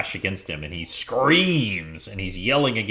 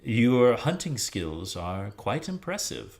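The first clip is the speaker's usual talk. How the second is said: drow leader; 2 semitones higher than usual. Acted. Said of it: "The leader turns to Zuana".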